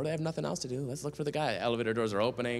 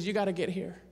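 higher-pitched imitated Texas woman; Southern Texas accent; 5 semitones higher than usual. Miss Annette urging him to hurry, Southern Texas accent. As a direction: mimic her Southern Texas speech, pitched up. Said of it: "Southern Texas accent".

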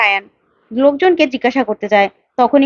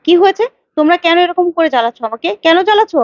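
angry yell; 4 semitones higher, faster than usual. Acted. Mother yells at visitors at door.

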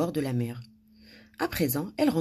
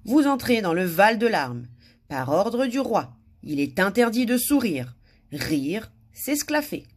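raised, measured proclamation; royal notice; 4 semitones higher, 4 dB louder than usual. A narrator's reading. Narrator reads the king's forbidding notice, proclaimed. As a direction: proclaim it like an official decree.

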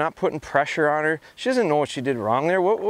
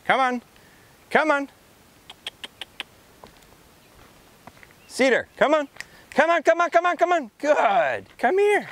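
much higher, bright repeated come on; high-pitched dog recall; 13 semitones higher than usual. Real, not acted. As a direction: call the dog in a high coaxing voice. Calling distracted dog back.

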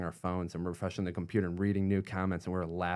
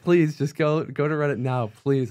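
higher, louder urgent pleading; begging; 7 semitones higher, 9 dB louder than usual. Retold or imitated. Urging his friend Eric to check Reddit, loud begging. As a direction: beg him to go look right now. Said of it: "It's like begging him".

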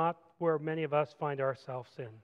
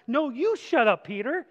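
higher and louder comeback; sharp retort; 6 semitones higher, 5 dB louder than usual. Acted. Jesus turns and rebukes Peter, higher and louder. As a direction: fire it right back at him.

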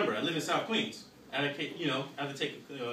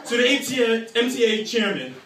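prim, proper complaining customer, louder and higher; white person impression; 6 semitones higher, 6 dB louder than usual. Passenger imitating a white person complaining to the driver. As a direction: put on a polite uptight voice threatening a letter. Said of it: "That's when the white person came out of me".

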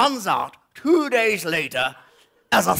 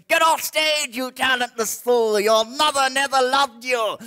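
raised, higher mock heckling; drunk heckler; 4 semitones higher than usual. Drunk man at the back heckles the comic, mock jeering. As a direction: call out abuse like a heckler.

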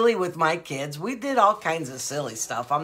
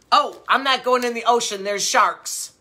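a hint of a little girl's voice, louder and a bit higher; imitating granddaughter; 5 semitones higher, 4 dB louder than usual. Grandma lightly imitates granddaughter refusing to swim, mildly childlike. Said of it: "she'll talk just like this".

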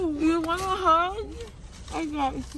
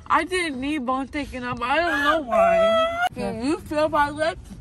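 teary. Real, not acted. Crying after surgery.

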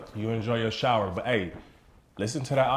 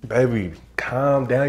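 calm; 6 dB louder, much slower than usual. Acted. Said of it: "Don't tell me to calm down".

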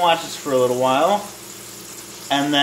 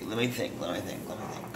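much softer, lower mumble to yourself; thinking aloud; 7 semitones lower, 15 dB quieter, faster than usual. Real, not acted. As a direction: drop right down as if searching your memory.

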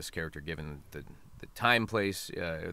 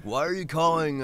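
higher, louder mock bewilderment; baffled; 8 semitones higher, 7 dB louder than usual. Pizza worker to the Italian caller, mock baffled. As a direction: imitate a puzzled pizza worker.

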